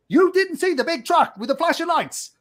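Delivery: high, incredulous scolding; angry officer. Retold or imitated. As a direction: imitate an officer who can't believe it. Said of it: "he was really angry".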